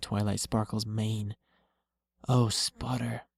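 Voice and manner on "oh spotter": whimpered. Acted. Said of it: "The mare whimpered".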